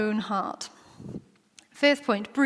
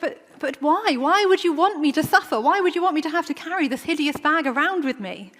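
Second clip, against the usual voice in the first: pleading whine; 5 semitones higher than usual. Acted. Complaining to Jesus in skit.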